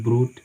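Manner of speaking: ब्रूट with GH silent; no G sound in ब्रूट; correct pronunciation. Shown as a demonstration. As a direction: say ब्रूट as "broot", vowel straight into T. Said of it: "जीएच silent है".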